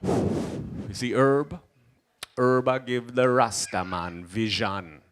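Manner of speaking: drawn-out Jamaican wisdom; slow solemn Rasta voice; very slow Rasta sage. Retold or imitated. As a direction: savor each word like a Rasta elder. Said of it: "It's like".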